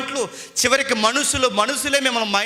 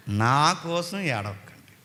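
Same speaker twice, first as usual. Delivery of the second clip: slow repeat; 6 semitones lower, 4 dB quieter, slower than usual. Shown as a demonstration. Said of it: "మళ్ళీ చెప్తున్నాను".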